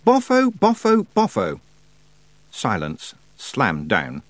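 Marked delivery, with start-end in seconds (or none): 0.0-1.6 angry shout. A narrator's reading. Tiffany shouts in anger.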